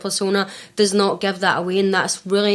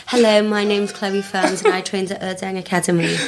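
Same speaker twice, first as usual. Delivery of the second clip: stage voice. Retold or imitated. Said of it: "That was your stage voice".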